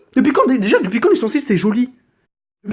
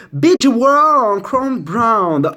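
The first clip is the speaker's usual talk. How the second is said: slow, drawn-out high English name; over-the-top presenter unveiling; mock grand reveal; 5 semitones higher, 5 dB louder, much slower than usual. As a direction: stretch the product name out grandly.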